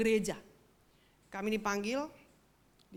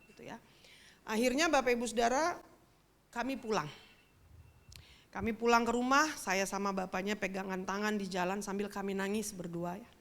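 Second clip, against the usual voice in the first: normal talking voice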